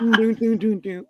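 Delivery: little "doo doo" walking tune; mock sauntering hum. Imitating Robin strolling in, mock "doo doo" tune. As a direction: toot along casually. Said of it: "Robin's coming in like".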